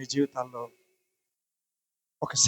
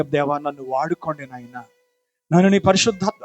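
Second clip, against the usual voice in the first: a fervent plea, rising louder; loud fervent prayer. Acted. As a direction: pray aloud with full fervour, crying out to God. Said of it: "అందరూ నోరు తెరిచి".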